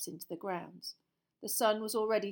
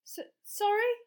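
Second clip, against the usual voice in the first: startled; 13 semitones higher, 7 dB louder than usual. Acted. Harry startled after trance.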